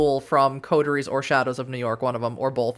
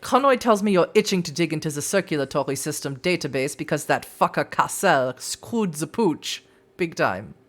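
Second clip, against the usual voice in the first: shaky attempt at German accent. Kaiser talks business with visitors, attempted German accent. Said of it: "so does not speak like a German".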